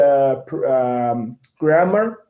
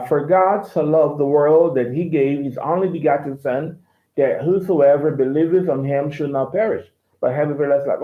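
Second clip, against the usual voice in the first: lightly American reading of the verse; mild General American accent; American English. Shown as a demonstration. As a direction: read it in a plain American accent. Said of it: "in American English".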